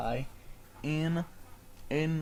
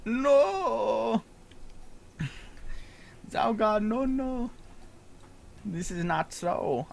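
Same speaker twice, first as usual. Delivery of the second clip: high, loud squeaky protest; protesting creature; 9 semitones higher, 4 dB louder, slower than usual. Acted. Kobold protests to Zalgar, high loud squeak. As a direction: cry out in denial.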